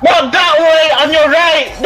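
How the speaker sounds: real urgent in-game shout; urgent callout. Real, not acted. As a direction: call the correct way to a teammate. Calling directions to teammate in game.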